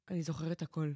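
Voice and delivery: low, soft dread; mock horrified whisper. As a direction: admit it quietly in shame. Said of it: "אני עושה לה". (לחישה נמוכה ומבוהלת)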